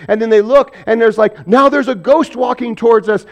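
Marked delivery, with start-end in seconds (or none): 1.5-3.3 mildly alarmed, higher-pitched quote; mock panic. Disciples seeing a figure on the water, mock panic. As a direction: imitate frightened men, lightly pitched up. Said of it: "like, panicking".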